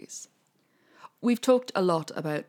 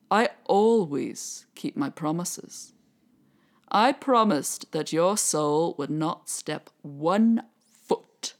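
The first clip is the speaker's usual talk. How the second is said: slow, measured, a hint of menace; lightly voiced devil; slower than usual. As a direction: deliver the verdict calmly and slowly. Devil refuses Jack.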